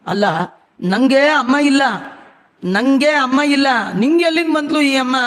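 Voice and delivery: can't believe this mother exists; stunned son-in-law asking where this mother came from; astonished protest. Acted. Brahma astonished at unknown mother.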